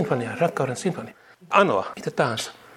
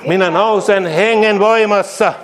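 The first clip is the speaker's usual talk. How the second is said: slower, weightier second take of "voimassa"; slow emphatic repeat; 7 semitones higher, 6 dB louder, slower than usual. Shown as a demonstration. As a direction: draw the line out and land hard on "voimassa". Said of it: "repeated declaration".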